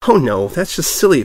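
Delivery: high, bouncy excited pony voice; bubbly Pinkie voice. A narrator's reading. Pinkie greets the returning reporter, high and bubbly. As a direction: go high and bright with glee.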